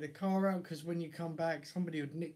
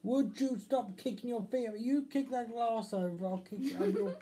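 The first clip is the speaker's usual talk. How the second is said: scolding; 5 semitones higher than usual. Real, not acted. Scolding the kid.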